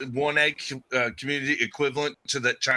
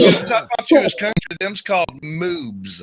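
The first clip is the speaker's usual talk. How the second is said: teasing; 3 semitones higher, 5 dB louder than usual. Real, not acted. Teasing friend.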